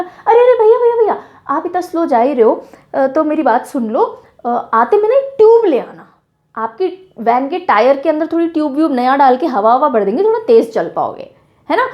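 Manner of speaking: playful mocking call to the van driver; teasing taunt. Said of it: "ताना मारते हुए, मजाक करते हुए बोला".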